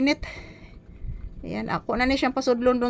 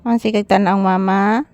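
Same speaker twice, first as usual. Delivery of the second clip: loud repeated call; 3 semitones lower, 10 dB louder than usual. Real, not acted. Mother calling out loudly again after the child asks.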